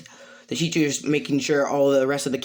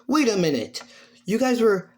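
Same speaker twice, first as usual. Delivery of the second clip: higher-pitched, mildly acted disbelief; teacher objecting; 8 semitones higher than usual. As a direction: cut in as a puzzled teacher. Teacher challenges the student's story.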